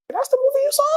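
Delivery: high incredulous question; can't believe that's the film. Retold or imitated. Actor retelling his reply to the director, high incredulity.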